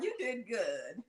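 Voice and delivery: soft, slow and choked up; tearful reassurance. Real, not acted. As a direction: say it gently, near tears. Comforting a tearful friend.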